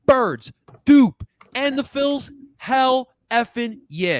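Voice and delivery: loud, high hype shout of Birds, Dupe and the Phils; hyped shout. Real, not acted. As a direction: cheer it out like a fan in the stands. Hyping Sunday's games.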